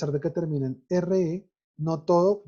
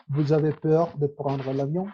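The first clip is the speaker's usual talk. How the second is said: French with the mouth held more closed. Shown as a demonstration. Teacher showing students closed-mouth French, lightly Frenchified. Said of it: "un poco más cerrada la boca en todo lo que dice".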